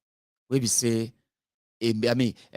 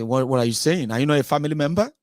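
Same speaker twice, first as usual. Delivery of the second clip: impatient doctor; 5 semitones higher, 3 dB louder, faster than usual. Retold or imitated.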